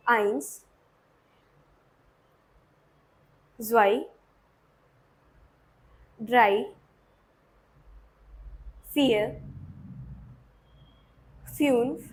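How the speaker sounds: teacher counting one to five in German; German counting demo. Shown as a demonstration. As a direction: count in German slowly for the class. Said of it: "counting से start करेंगे".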